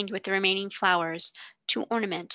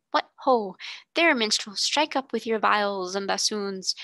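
princely call; 3 dB louder than usual. Pretend. Princess calls to pretend minstrel.

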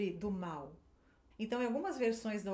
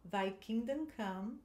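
slow, careful repeat; teacher repeating a short phrase; model line again; slower than usual. Shown as a demonstration. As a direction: say it slowly once more. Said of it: "De novo".

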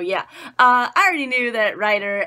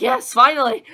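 1 relieved cheer; 2 semitones higher, 7 dB louder than usual. Retold or imitated. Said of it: "so I was like".

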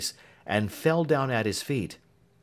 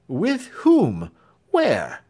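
urgent demand; 7 semitones higher, 7 dB louder, much slower than usual. Acted. Alfred urgent questions.

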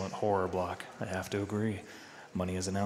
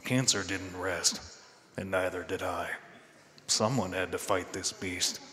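noir detective; 3 semitones lower than usual. Pretend. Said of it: "read this next part in your best noir voice".

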